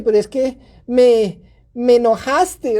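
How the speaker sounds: slow, drawn-out blaming "me"; stress on ME. Acted. Parent blames the child while apologising, heavy drawn-out "me". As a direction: dwell on "me", playing the victim. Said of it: "Y cuando vienes con el me".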